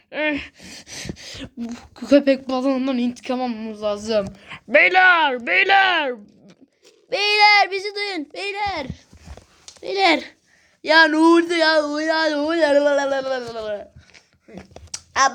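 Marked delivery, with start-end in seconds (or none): 4.7-10.2 calling out. Acted. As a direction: shout for the guys to hear. Calling out to the others.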